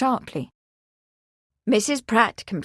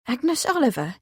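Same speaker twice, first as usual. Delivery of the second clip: exclaiming; 3 semitones higher than usual. Acted. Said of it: "Beatrix exclaimed".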